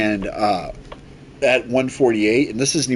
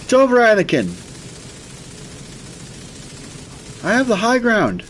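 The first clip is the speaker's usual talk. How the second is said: quoting Obi-Wan, hammed up; Obi-Wan quote; 12 semitones higher than usual. Obi-Wan movie quote impression.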